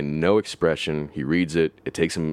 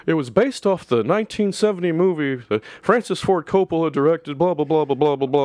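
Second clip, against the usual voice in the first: higher, mock endless lecture; droning nerd; 10 semitones higher than usual. Reading the comic's rambling nerd bubble, mock drone. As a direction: ramble on like it never ends.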